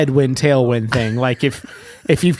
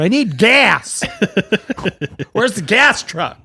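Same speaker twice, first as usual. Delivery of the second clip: mock pilot; 6 semitones higher, slower than usual. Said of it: "the pilot's outside going".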